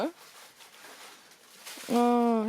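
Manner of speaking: ordinary delivery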